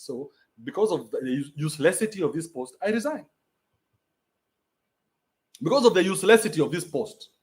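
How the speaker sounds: retold quote. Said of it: "This guy once said".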